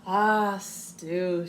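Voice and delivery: loud drawn ah, stew; police officer. Acted. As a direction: savor the word stew. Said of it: "she said".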